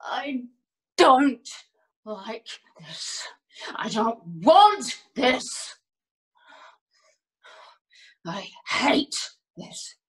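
uneven, from near-whisper to emphatic bursts; halting distress. Acted. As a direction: force out each phrase in misery. Acted monologue of distress.

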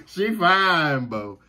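laughing Southern drawl, high then dropping; Southern boy voice. Shown as a demonstration. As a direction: say it Southern, through leftover laughter. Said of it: "say it in my Southern boy voice".

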